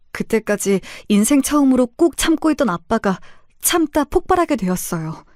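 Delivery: plain reading voice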